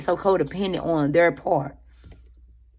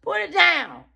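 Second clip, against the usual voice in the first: self scolding; 9 semitones higher, slower than usual. Pretend. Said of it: "I do myself like that".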